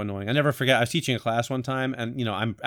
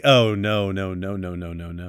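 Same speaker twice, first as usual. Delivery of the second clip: mock dismay; 5 semitones lower, slower than usual. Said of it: "my brain is going like".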